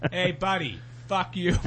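high voice breaking with laughter; laughing mock insult. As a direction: crack up while doing the mock comeback. Laughing through mocked promo comeback.

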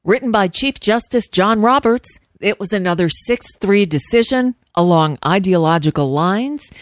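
steady newsreader delivery over music; news read. Acted. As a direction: read the headlines like a radio news anchor. Reads the news segment.

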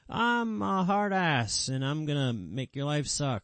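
lightly voiced stern grandma, starting high and drawn out; a touch of the hard-ass grandmother, pitch easing down as it goes; Latino grandmother stereotype. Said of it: "the whole Latino grandmother stereotype".

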